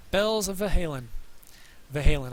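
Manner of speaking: hiccuping through the words; with hiccups. Real, not acted. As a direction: talk between hiccups.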